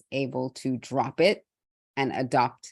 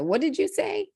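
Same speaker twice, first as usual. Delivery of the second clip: much higher mock voice of someone not understanding; mocking listener; 13 semitones higher than usual. Imitating people who teased her accent, mock high voice. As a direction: play the person who can't follow her accent. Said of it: "laughs at me or says".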